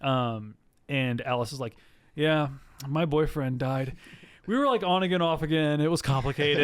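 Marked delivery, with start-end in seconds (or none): 2.2-6.6 put-on drunk overshare.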